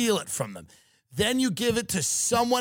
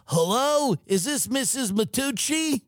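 pushy phone salesman, higher pitched; call-center telemarketer; 5 semitones higher than usual. Acted. Rep cold-calling an elderly mark, sing-out phone sales greeting. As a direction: hail a stranger on a cold call, high and upbeat. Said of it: "with your head on the phone going".

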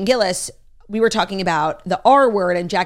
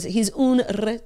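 Phoebe's put-on accent; 2 semitones higher, slower than usual. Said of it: "Phoebe says it with, um, an accent".

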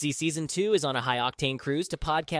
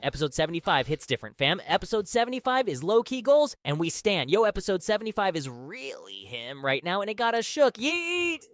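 Gen Z slang voice. Pretend. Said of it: "I'm finna talk like this".

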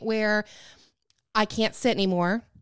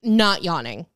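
not yawning said with heavy hint on "not"; stress on not; 3 semitones lower, 3 dB louder than usual. Real, not acted. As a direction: lean on "not" knowingly. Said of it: "If you catch my drift".

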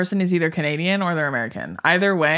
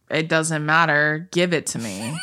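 Bella; 2 semitones lower than usual. Retold or imitated. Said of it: "It's very monotone".

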